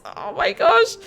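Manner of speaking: high, hammed-up pitying voice; mock heartbreak. To Marina over her lost bubble tea, hammed-up pity. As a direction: overplay how sad it is.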